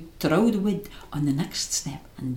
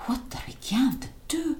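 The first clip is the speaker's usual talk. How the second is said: frightened breathy half-whisper; half whisper, half speak, scared; fearful half-whisper; 9 semitones higher than usual. A narrator's reading. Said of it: "half harking, half speaking, his voice bracken with fear".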